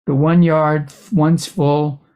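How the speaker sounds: measured reading with pauses between phrases; poem reading. Acted. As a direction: read your poem, phrase by phrase. Reads a poem aloud.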